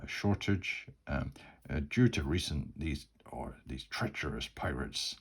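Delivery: shopkeeper's apology with a light Irish twang; slight Irish twang. Acted. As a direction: let a hint of Irish slip into the neutral accent. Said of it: "bit of an Irish twang to him".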